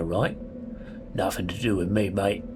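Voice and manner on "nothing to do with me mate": put-on London accent, evenly pitched; Londoner accent. Gamer retrying a prisoner's line in a London accent. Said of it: "like, Londoner".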